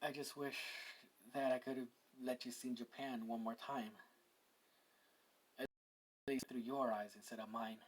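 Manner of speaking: soft, understated grief with long pauses; mildly tearful. Acted. Issei missing Shizu just after absorbing her, mildly tearful. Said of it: "start crying a bit".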